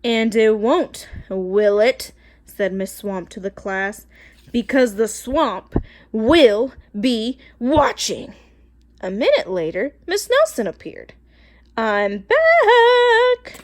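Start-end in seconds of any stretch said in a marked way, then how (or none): 0.0-8.3 slow, loud ominous warning; menacing witch. Acted. Witch warns class. 11.8-13.6 high, loud singsong greeting; cheerful. Acted. Teacher returns cheerfully.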